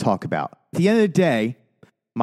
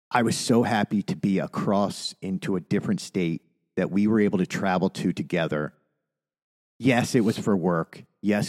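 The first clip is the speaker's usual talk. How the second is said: softer, lower, choked-up sincerity; holding back tears; 4 semitones lower, 4 dB quieter than usual. Real, not acted. Thanking his co-host for their trips, holding back emotion. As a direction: keep the emotion just under the words. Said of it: "try not to get emotional".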